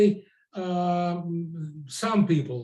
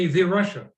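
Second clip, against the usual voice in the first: "the Russia." with the punched louder, mocking; mocking stress on the; 4 dB louder than usual. Shown as a demonstration. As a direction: stress "the" in "the Russia." to show how absurd it sounds. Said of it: "Isn't this ridiculous?".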